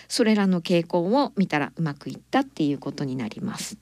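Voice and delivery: ordinary talk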